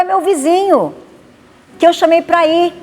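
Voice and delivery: it's only the neighbour; innocent host. Retold or imitated.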